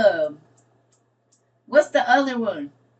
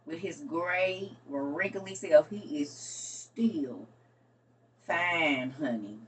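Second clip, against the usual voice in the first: swooning; 5 semitones lower, 7 dB quieter, much slower than usual. Real, not acted. Swooning over Sean Connery.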